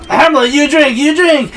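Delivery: mock high-pitched plea; high urging mother. Mother begging Hamlet to drink, high mock plea. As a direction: urge it in a hammed-up high voice.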